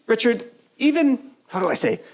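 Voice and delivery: high-pitched imitation of grandma's broken English. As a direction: imitate an elderly woman struggling in halting English. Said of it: "She had very broken English".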